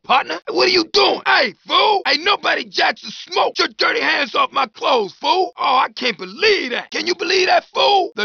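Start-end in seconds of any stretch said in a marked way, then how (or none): 0.5-5.5 angry shouting. Acted. Angry at someone grabbing him. 6.9-8.1 indignant outcry. Acted.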